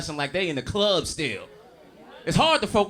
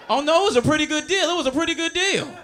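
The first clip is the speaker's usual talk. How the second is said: laughing; 10 semitones higher, 5 dB louder than usual. Acted. Mock nostalgic about child support.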